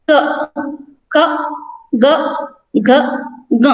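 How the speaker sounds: teacher reciting क, ख, ग, घ, ङ for the class; consonant recitation. Shown as a demonstration. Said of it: "इन व्यंजनों का उच्चारण करें".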